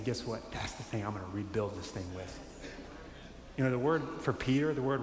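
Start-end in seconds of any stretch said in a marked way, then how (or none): 0.0-2.4 a hint of a tender reassuring God; tender promise. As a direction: lower and softer, gentle reveal. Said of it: "and saying".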